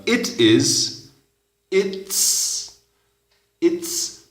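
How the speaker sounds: it's mostly breathed, no voice; slow then whispered its. Shown as a demonstration. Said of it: "llega a ser". (it's, casi susurrado)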